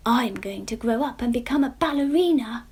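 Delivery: high, eager little pumpkin voice; a hopeful young pumpkin sharing her dream; Jemima pumpkin voice. Acted. Jemima tells Mister Munro her plan, high and eager.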